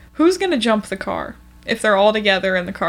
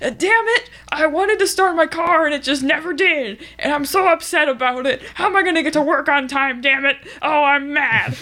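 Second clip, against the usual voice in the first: higher mock-angry outburst on damn it; hammed-up frustrated ranting, lightly voiced; Hank rant; 3 semitones higher than usual. Ranting as Hank about a dead car, mock anger. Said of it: "He was so angry".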